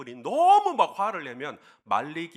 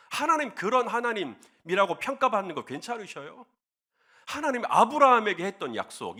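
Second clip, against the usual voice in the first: pleading to dissuade. Acted. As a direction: reason urgently with God, question after question. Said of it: "이렇게 막 하나님을 말립니다". (하나님을 말리듯 간곡히 따지는 말투)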